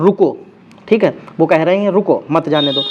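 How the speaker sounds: रुको set apart before a break; pause after रुको. Shown as a demonstration. Teacher explaining the comma, pause after रुको. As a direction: stop right after saying रुको. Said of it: "रुको के बाद comma लगा दिया".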